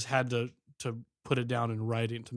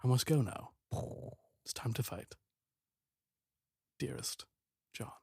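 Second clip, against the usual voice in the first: lightly voiced wartime letter. Soldier writing home before he must go fight, understated solemn voice-over. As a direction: read a letter home from the front, with pauses.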